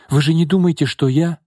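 high, urgent entreaty; imploring, unfinished question; pleading. A narrator's reading. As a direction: beg to be believed. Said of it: "взмолилась Наташа".

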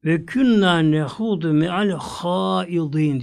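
drawn-out Quranic chant of the verse; slow Quran recitation; slow Arabic recitation. Acted. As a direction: recite the Arabic slowly, as in prayer.

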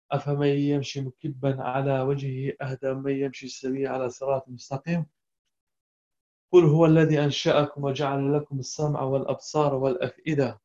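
measured chanted Quran recitation. Acted. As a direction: recite the verse in tajweed style. (chanting a Quran verse for the class)

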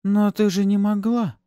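high, loud objection; disbelieving protest. A narrator's reading. Kastala refusing to believe Pafi did it, protesting.

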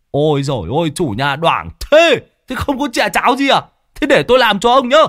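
teasing Lâm Sẹo. Acted. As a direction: rib the host with a sly grin. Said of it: "Lâm Sẹo nói xong rồi liếc mắt". (giọng Lâm Sẹo trêu chọc, cao vống)

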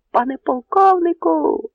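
high, loud call from the belfry; sentry shouting down from the belfry. Acted. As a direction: hail the colonel from far above. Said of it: "гукнув чатовий на дзвіницях".

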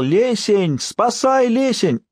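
put-on high, ringing cry of a young girl for help; ringing girl's call. A narrator's reading. Captive girl calling her forest god for rescue, high ringing cry. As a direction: call out high and clear like a frightened maiden. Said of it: "звонкий голос кого-то звал".

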